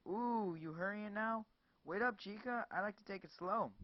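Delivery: high, sing-song jeering; mocking thug. Leering thug taunting the woman as she runs. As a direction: tease her like prey.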